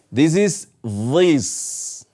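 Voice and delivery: This is this, drawn out slowly; this spoken slowly. Shown as a demonstration. Teacher drawing out the letter sound. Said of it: "close to this, but this".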